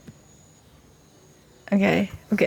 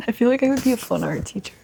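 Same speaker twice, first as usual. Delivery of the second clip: voice cracking; 3 semitones higher, faster than usual. Real, not acted. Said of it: "my voice cracked".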